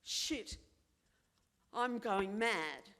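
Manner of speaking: whispered "Shit" then a loud, slow, panicked "I'm going mad"; mock panic, half whispered and half blurted; panicked inner voice. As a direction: voice the sudden fear of losing your mind. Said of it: "your next response is".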